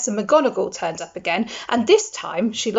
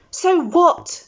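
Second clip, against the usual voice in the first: higher, louder defiant shout; 10 semitones higher, 6 dB louder than usual. A narrator's reading. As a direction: fling it back at them. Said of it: "Harry shouted".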